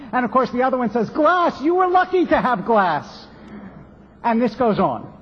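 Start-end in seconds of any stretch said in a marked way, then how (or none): 1.1-3.3 mock scoffing disbelief. Last man scoffs at glass.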